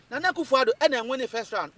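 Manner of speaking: firm, deliberate statement; emphatic. Real, not acted. To the host, insisting the party won round one, emphatic. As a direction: lean on every word of the claim. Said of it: "Let me say this emphatic".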